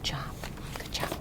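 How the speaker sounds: very soft, hushed praise; low-volume, gentle encouragement; quiet praise. Real, not acted. Praising child softly after reading.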